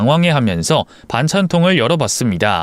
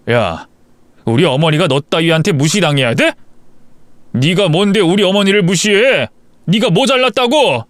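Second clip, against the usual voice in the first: angry husband; 4 semitones higher than usual. Acted. Husband confronts wife angrily.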